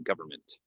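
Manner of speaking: "government" as GUV-er-ment; plain model of "government" without N; silent N. Shown as a demonstration. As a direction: drop the middle N of "government". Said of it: "we don't say the N".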